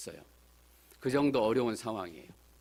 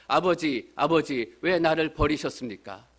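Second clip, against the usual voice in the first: imitated cry, louder and higher; Jesus; 4 semitones higher, 6 dB louder, slower than usual. Jesus on the cross crying to his Father, imitated loud cry. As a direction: call out loudly in a retold plea. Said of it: "이렇게 소리치는 분이 계셨어요".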